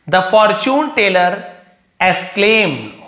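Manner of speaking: slow, deliberate reading of the line. Shown as a demonstration. Teacher reading the story sentence to the class, slow and deliberate. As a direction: read each word out slowly.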